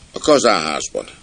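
lightly voiced small boy; child's voice. Stoker's son saying where his father is, child's voice. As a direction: answer up like a little kid. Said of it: "kérdezte egy gyerekhang".

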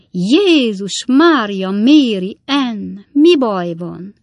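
high, loud, drawn-out cry of alarm; alarmed exclamation. A narrator's reading. Klappinsné sees Redlné staggering in, alarmed. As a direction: cry out slowly in shock at a friend's state. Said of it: "kiáltott fel Klappinsné".

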